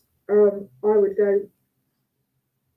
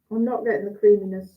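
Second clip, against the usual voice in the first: talking through a mouthful of cheese; words round a bite of food; mouth full; faster than usual. Real, not acted. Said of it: "Talking with my mouth full".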